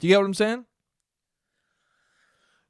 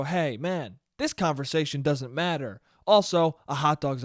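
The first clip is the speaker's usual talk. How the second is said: calm. Retold or imitated. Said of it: "the more calm you remain and just go".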